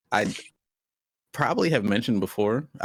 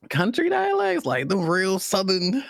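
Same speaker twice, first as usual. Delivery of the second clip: excited; 5 semitones higher than usual. Real, not acted. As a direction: gush about it. Excited about Southern dialect.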